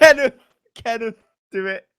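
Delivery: loud, high-pitched gleeful outburst; excited. Real, not acted. Urging a friend to use the silly rhyme, excited.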